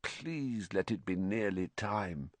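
put-on a tired boy begging the clock to move; miserable thought. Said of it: "Harry thought miserably".

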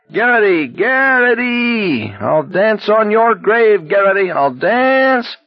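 very high, drawn-out mad shriek; mad cackling. A narrator's reading. Barkovich taunting Garrity from behind, madly cackling. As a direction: screech it gleefully, stretching the words. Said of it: "Barkovich was cackling, higher and madder".

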